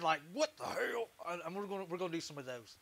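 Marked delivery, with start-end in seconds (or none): 0.3-1.1 curious. Pretend. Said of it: "I want him looking, like, all curious".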